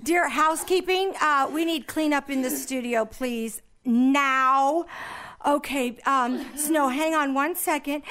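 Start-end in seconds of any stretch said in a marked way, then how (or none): 0.0-2.3 panicked host. Acted. Host panics over Snow.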